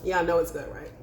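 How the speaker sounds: talking while crunching; words round a crunchy mouthful; crunching chips. Real, not acted. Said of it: "can you hear me crunch".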